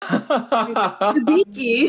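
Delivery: slow, drawn-out goofy name; dopey sweet himbo. Retold or imitated. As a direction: stretch it out like a sweet dumb hunk. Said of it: "the speaker's himbo voice".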